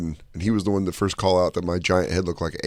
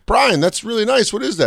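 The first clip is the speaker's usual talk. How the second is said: much higher, sugary mock mom voice; imitating mom; 12 semitones higher than usual. Mom praising the friend's diorama, higher mock sweetness. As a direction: play the fake-sweet mom. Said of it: "my mom was like".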